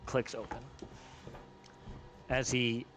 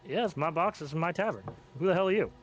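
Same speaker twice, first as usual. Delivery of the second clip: angry goblin; 5 semitones higher than usual. Acted. Goblin owner angrily questions the stranger in his tavern.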